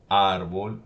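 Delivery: "árbol" with the first syllable ÁR punched; teacher's example word ÁRbol, stressed at the start; stress on tonic syllable. Shown as a demonstration. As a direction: hit the Á in "árbol". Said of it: "sobre la vocal de la sílaba tónica".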